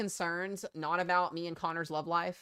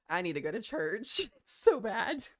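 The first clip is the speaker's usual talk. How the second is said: laughing; 4 semitones higher, 4 dB quieter, slower than usual. Real, not acted. Cracking up at own joke.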